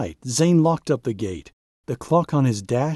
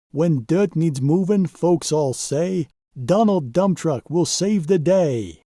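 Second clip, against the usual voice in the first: a higher, proud bragging truck voice; boastful dump truck; 3 semitones higher than usual. Acted. Donald Dump Truck bragging to the crew, proud and higher. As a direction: show off like the toughest truck on site. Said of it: "and said".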